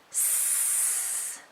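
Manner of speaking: "S" as a long soft voiceless sss; letter sound. Shown as a demonstration. Teacher modeling the sound for a child, "S" as a drawn-out sss. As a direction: hold the sound of "S", not the letter name. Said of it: "touch under this sound and say the sound".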